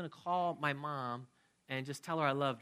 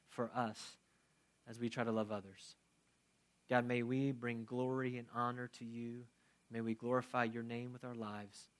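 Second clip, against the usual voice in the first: closing prayer. Acted. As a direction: pray humbly over the congregation.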